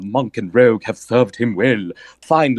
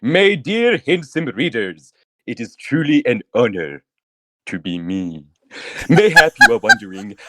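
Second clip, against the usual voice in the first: grand, self-important storyteller, lightly done; a hint of a vain romance novelist holding court; lightly voiced pompous author. S0 plays pompous author Evidius.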